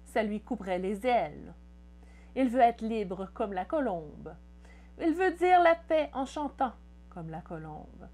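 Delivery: measured poetry reading, phrases falling at the ends; poem recitation. Acted. Poet reading a teenage poem to viewers, measured recitation. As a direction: recite it line by line with pauses.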